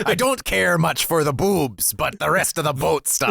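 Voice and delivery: sea captain voice. Retold or imitated. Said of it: "old salty sea captain".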